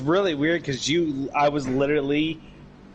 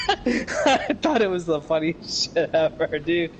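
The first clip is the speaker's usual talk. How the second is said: laughing; 2 semitones higher, slower than usual. Real, not acted. Laughing recounting prank.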